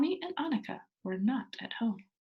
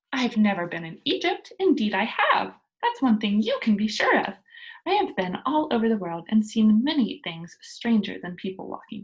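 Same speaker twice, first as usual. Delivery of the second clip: Pippi boasts; 5 dB louder than usual. Acted.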